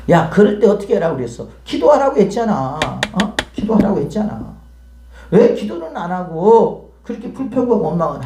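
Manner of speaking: scolding reminder, pitch jumping up on the repeat; acted exasperated reproach. Preacher voicing God reminding complainers to pray, exasperated reproach. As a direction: play a frustrated parent nagging.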